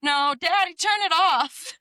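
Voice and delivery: put-on high insistent child's voice; toddler voice. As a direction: beg daddy like a small girl. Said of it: "She's like".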